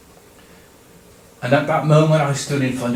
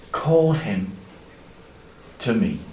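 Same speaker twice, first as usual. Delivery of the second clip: calm strong voice; 5 semitones lower, 4 dB quieter than usual. Acted. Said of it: "It was calm, it was strong".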